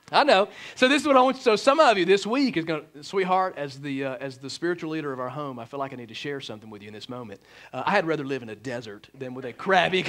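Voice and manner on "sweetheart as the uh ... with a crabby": much lower, quieter, solemn spiritual leader; mock solemn husband. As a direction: play the pious husband with mock gravity. Husband mock-solemnly addressing his wife.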